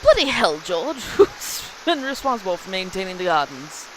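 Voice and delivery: loud, hammy British outburst breaking into a laugh; playfully overdone British accent. Acted. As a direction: exclaim it in a mock British accent. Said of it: "now I wanna go British 'cause he said bloody".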